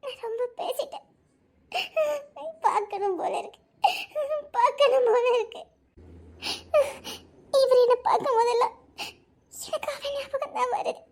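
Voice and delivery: crying through laughter-like sobs; tearful regret. Acted. Alone after the quarrel, weeping with regret. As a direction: let the regret spill out in sobs.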